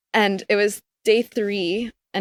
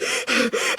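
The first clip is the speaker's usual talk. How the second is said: hyperventilating gasp; 2 semitones higher than usual. Retold or imitated. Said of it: "totally hyperventilating".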